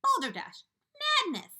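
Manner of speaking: high, loud shout. Acted. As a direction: shout him down in scorn. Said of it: "they shouted".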